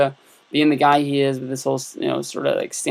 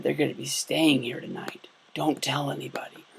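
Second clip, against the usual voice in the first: hushed, much softer secret-sharing; confiding hush; 8 dB quieter than usual. Retold or imitated. Clerk secretly telling a guest the Divas are coming, hushed. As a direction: lean in and keep it secret.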